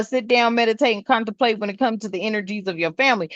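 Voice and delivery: fast throwaway meditate and contemplate; rattled off quickly; rushed mock version. Shown as a demonstration. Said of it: "I'm saying mid".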